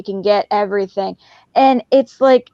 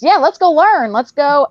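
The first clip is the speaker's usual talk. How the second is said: higher, bright-eyed cheer to a dog; upbeat coaxing; 4 semitones higher than usual. Retold or imitated. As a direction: pump the dog up for fun.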